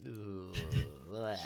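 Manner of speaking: low, drawn-out "ugh"; disgusted groan. Acted. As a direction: groan with mock disgust at poor audio. Disgust at old audio quality.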